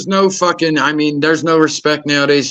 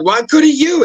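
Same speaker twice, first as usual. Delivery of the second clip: mock retort; 12 semitones higher, slower than usual. Speaker snapping back at the cop, sarcastic. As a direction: toss the question right back.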